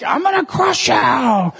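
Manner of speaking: slow, drawn-out mock threat; hammed-up churchgoer menace. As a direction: play the pew-owner growling a threat. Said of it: "then they're like".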